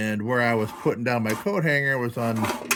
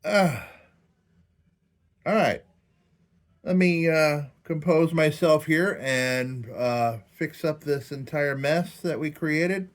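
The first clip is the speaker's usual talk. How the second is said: after laughing hard; 5 semitones higher, slower than usual. Real, not acted. Recovering from laughing fit.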